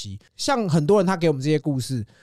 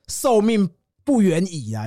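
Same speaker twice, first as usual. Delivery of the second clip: 1 mock solemn; 3 semitones higher, slower than usual. Mock solemn fortune-teller line.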